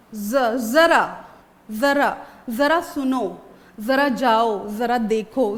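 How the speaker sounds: जरा with a z sound, slowly; model words. Shown as a demonstration. To the class, a teacher models जरा with a z. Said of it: "वो हो जाएगा ज".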